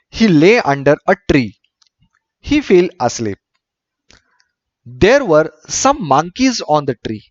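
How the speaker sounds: slow, deliberate English story reading; story read-aloud. A narrator's reading. Teacher reading a story to pupils, measured read-aloud. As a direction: read it out sentence by sentence with pauses.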